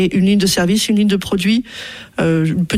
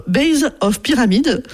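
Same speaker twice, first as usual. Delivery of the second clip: "base of pyramid" in a self-mocking English accent, slowed; careful, slow English on "base of pyramid"; jokey English accent on "base of pyramid", a bit higher; 4 semitones higher, slower than usual. Shown as a demonstration. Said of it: "avec mon super accent".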